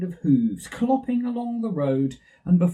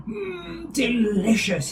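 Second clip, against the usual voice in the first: put-on Baby Bear munching; 8 semitones higher, slower than usual. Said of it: "he said".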